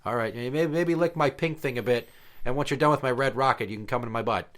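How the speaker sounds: a bored dog giving in, loud at first then settling; weary dog voice. Retold or imitated. Old dog sighing at the other dog, lightly voiced and resigned.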